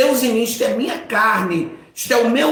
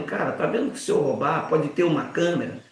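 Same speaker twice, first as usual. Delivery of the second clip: soft, murmured conscience voice; a quiet inner voice warning him; voz da consciência; 6 semitones lower, 6 dB quieter than usual. Retold or imitated. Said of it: "há uma voz que me guia aqui e dizendo". (voz baixa da consciência, como um conselho íntimo)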